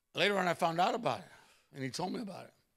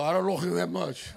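laughing punchline; 4 dB louder than usual. Retold or imitated. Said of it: "He go".

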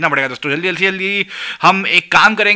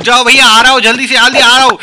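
raised, higher call across the shop; 5 semitones higher, 4 dB louder, faster than usual. Real, not acted. Shopkeeper calls to a waiting customer, raised and high. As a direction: shout ahead to the waiting customer.

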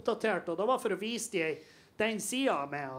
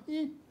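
imitated grunt; 7 semitones higher, 5 dB quieter than usual. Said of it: "Hun laget en sånn lyd".

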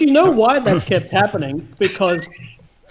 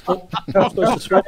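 laughing; faster than usual. Real, not acted. Laughs at own swearing.

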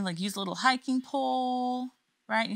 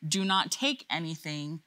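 teacher voice. Shown as a demonstration. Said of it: "say that one again".

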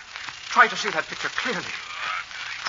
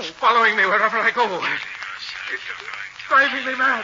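1 frantic; 5 semitones higher than usual. Acted. Breaking down on the terrace.

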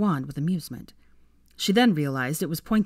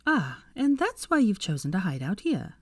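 higher, knowing Hermione; 4 semitones higher than usual. Acted. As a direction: say it like you've figured him out. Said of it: "said Hermione knowingly".

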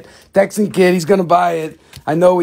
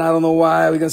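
put-on New York accent; much faster than usual. Seller switches accents for fun, New York accent. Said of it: "going up to the New York accent".

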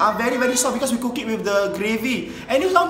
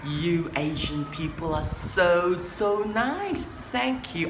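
posh Western neighbour; 4 semitones lower, 3 dB quieter than usual. Acted.

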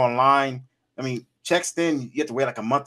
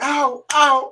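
mock ow; 10 semitones higher, 4 dB louder than usual. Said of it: "he was like".

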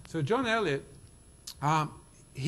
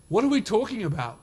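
rhetorical question; 5 semitones higher, 6 dB louder than usual. Real, not acted.

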